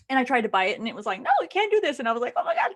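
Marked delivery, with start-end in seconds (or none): 1.2-2.0 high-pitched imitated refusal; mock refusing device. Kindle refuses to buy the book, high mock refusal. 2.4-2.7 very high squeal of frustration; mock exasperation. Reader blocked from buying book, high exasperated squeal.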